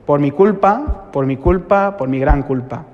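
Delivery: slow liturgical recital of "Por mi culpa"; penitential recitation. Retold or imitated. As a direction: recite the confession in measured, drawn-out phrases. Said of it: "llega el momento que dices".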